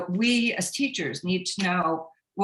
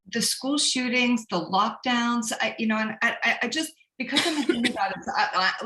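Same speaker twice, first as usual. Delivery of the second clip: emotional; 4 semitones higher than usual. Real, not acted. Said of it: "I've been a little bit emotional about this".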